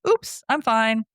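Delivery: light mock nonchalance; laughing it off. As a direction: retell it as a casual "no harm done". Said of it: "laughing it off".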